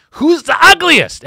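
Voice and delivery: high, loud, slow showman call; announcer call. Acted. Host opening the ugly contest, loud and high. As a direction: announce it like a game show host.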